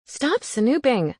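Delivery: slow, firm demand. Acted. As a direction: order him to stop, slowly. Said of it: "I demanded".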